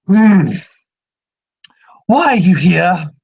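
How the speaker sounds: a spirit suddenly demanding answers; menacing spirit. Acted. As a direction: turn cold and probing. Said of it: "Muse's voice echoes".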